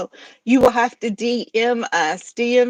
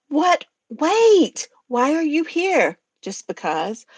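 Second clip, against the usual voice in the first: skit reread in better tone. Acted. Reread Gilda and Godzilla arguing properly. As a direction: try the bickering again, in character. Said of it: "Wasn't reading it in the right tone".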